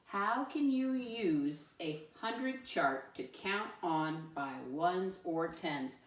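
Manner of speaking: put-on slow, deliberate statement reading for kids; slow, clear teacher read-aloud. Shown as a demonstration. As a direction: read it out slowly so they can follow. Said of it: "Here we go".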